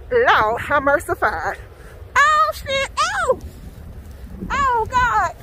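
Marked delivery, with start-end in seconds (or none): 2.2-5.4 startled fright. Real, not acted. Scared in the snow.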